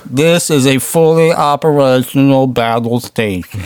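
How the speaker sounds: slow, drawn-out Emperor impression. Host mimics the Emperor's battle station speech, slow and menacing. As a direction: drag it out like the sinister Emperor. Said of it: "the Emperor with that voice".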